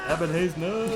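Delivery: hammed-up cry of protest; mock dramatic cry. Acts out second protest.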